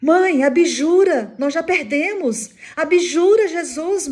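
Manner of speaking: high, loud, desperate begging; terrified shout. Retold or imitated. Burning son begs his mother to recant, acted terrified shout. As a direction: cry out in panic, drawing out the plea. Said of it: "apavorado grita".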